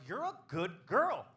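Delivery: loud, high, hammed-up praise; mock doting praise. Comic praises partner in bed, loud, high mock doting. Obliging request to say good girl.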